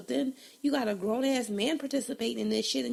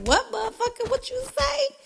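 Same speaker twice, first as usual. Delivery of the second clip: high, loud mock challenge; pitched way up, loud and demanding; gangster confrontation; 11 semitones higher, 5 dB louder than usual. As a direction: confront the mumbler at raised pitch. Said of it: "That makes you more gangster".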